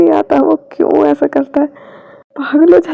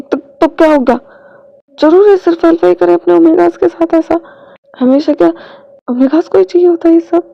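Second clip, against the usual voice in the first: higher, louder challenging questions; indignant protest; 5 semitones higher, 5 dB louder than usual. Acted. Wing challenging the alpha's pride, indignant loud protest. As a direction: push back, a little offended.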